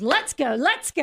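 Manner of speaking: psyching herself up to shop; pumped up. Retold or imitated. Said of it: "crack your knuckles, roll up your sleeves".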